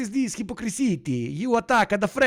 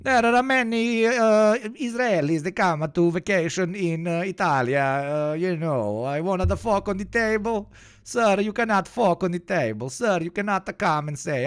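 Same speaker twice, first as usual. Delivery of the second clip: mock Italian accent. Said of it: "this anti-Italian accent".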